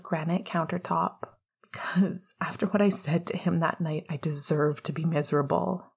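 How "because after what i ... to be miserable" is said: soft, breathy mumbling; quiet mumble. Acted. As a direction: mumble it under your breath. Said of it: "Remus mumbled with a quiet breath".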